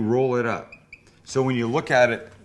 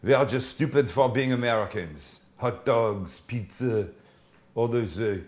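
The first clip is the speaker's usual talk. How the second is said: lightly put-on French accent, dismissive list of American foods; mock French accent. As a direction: scoff through the list in a hint of French. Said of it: "That's a good accent".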